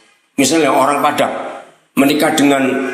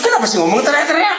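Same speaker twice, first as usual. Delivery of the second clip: keluarga halus; 11 semitones higher, faster than usual. Acted. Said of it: "Ini keluarga halus-halus". (menirukan keluhan keluarga halus, nada tinggi)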